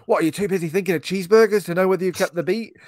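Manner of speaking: scornful pretend yell, pitched well up; retold screaming. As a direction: imitate a drill-sergeant teacher berating a kid. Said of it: "he's, like, screaming at this kid".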